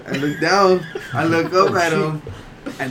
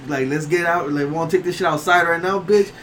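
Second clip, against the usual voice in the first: retold challenge; 3 semitones higher than usual. Retold quarrel, challenge to fight.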